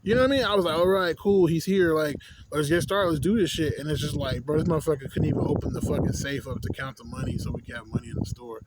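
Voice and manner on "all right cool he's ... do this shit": louder, keyed-up retelling of his own eagerness; mock-cheerful let's-go energy; eager to start. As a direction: pump yourself up to get going. Eager to start work with manager.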